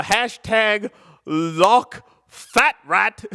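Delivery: slow, drawn-out, amused; drawn-out reading. Acted. Streamer reading out a silly username, drawn-out. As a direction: savor the silly name slowly.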